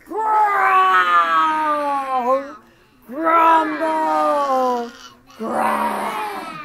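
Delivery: builds from growl into loud shouted growls; growing growl. Shown as a demonstration. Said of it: "let's read it".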